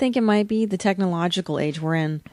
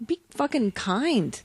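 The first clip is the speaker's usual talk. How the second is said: soft slow plea; 4 semitones higher, 7 dB quieter, slower than usual. Pretend.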